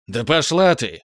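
громкий злой огрыз, выше обычного; огрызнись на неё; огрызнулся. A narrator's reading. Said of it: "огрызнулся Рискар". (Рискар злобно огрызается на Иви)

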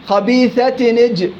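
slow خبيثة نج with the hamza of اجتثت falling away; slow demo of joined reading; linked, hamza dropped. Shown as a demonstration. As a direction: glide straight from خبيثة into نج. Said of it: "همزة الوصل حال الوصل تسقط".

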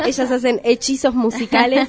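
laughing through the words. Real, not acted. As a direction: chuckle as you speak. Host laughs while introducing guests.

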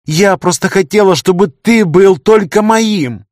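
high, loud, slow desperate scream; girl screaming at the man she wanted. A narrator's reading. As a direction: scream it out of hurt love. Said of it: "закричала Лия".

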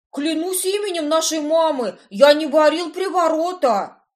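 high frantic swearing. A narrator's reading. Cousin swearing his innocence, high and pleading. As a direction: swear on your mother, pleading. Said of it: "принялся божиться кузен".

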